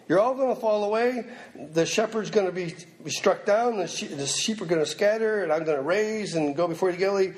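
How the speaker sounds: high, earnest warning as Jesus; voicing Jesus. Preacher voicing Jesus to Peter, high and earnest. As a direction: raise the voice to play the Lord warning.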